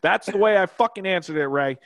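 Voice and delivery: loud, high-pitched angry rant. Real, not acted. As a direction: hammer the point home. Heated podcast argument over quote.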